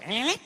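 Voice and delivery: "eh" as an imitated voice going up; wordless "eh" with a questioning lift; rising question tone. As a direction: mimic a talker's "eh" lifting at the end. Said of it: "It goes up".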